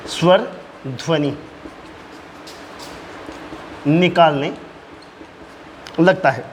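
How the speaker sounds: word by word with long pauses; slow dictation. Real, not acted. Teacher dictating a point to students, slow dictation. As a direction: dictate it slowly, pausing for note-taking.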